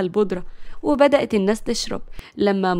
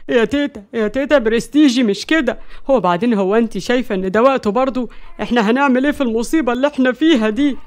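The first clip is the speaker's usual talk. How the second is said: mildly hurt protest in a put-on voice; pained complaint. A narrator's reading. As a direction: whine a little at grandma. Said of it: "ومعتز كمان اتكلم بوجع". (بوجع خفيف)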